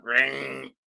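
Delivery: drawn-out "ring" noise; imitated clipper buzz. Describing barber cutting his hair, imitated buzz. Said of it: "he just went".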